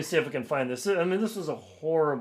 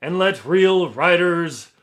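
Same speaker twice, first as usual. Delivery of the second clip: louder, higher, slow hammed-up pompous English accent; 4 semitones higher, 10 dB louder, slower than usual. Author reading the reviewer's boasts, pompous English accent. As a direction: boom it out like a grandiose English snob. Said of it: "pompous English accent".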